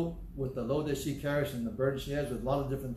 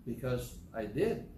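curt reply; 2 semitones lower, 4 dB quieter, slower than usual. Retold or imitated. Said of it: "I said".

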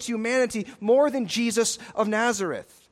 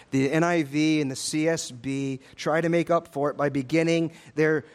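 ordinary talk

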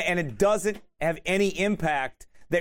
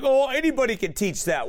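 higher-pitched dismissive retort; mock irate; 6 semitones higher than usual. Kid scoffing at the preacher's answer, mock irate. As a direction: imitate a worked-up kid brushing it off. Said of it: "this kid was going irate".

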